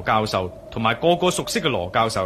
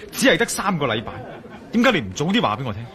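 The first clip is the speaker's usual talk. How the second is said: alarmed; 3 semitones higher, faster than usual. Acted. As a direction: press him, suddenly anxious. Alarmed at three weeks left. (焦急追問)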